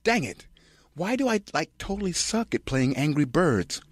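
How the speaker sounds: put-on high, whiny valley-girl pout; squeaky airhead complaining about a game; Kirsten Dunst. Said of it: "Kirsten Dunst, scrunching face".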